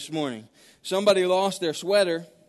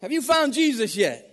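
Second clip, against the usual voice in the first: higher-pitched, acted exasperation; exasperated preacher; 8 semitones higher, 4 dB louder than usual. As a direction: play a preacher losing patience with the drunk. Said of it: "he's exasperated. He says".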